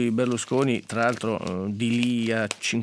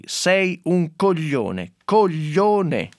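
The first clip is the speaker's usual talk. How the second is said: slow, mildly angry insult, rising on the second word; mock anger quoting Berlusconi's reply, not truly shouted; retold angry retort; 3 semitones higher, much slower than usual. Reading Berlusconi's reply to a heckler, mildly angry. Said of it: "arrabbiato così".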